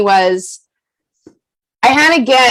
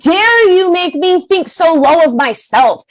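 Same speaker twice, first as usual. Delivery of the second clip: high, stretched-out righteous outrage; affronted, pitched up and emphatic; indignant anger; 6 semitones higher, slower than usual. Acted. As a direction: confront the offender, drawing out each accusation. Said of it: "You need to be angry".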